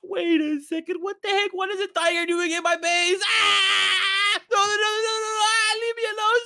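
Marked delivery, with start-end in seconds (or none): 3.3-6.4 panicked scream and pleading; scared. Real, not acted. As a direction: cry out in fright. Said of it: "look at how scared he is".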